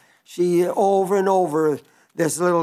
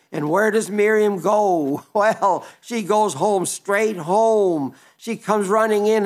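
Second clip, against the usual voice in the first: excited; 4 semitones higher than usual. Real, not acted. Excited storytelling with a laugh.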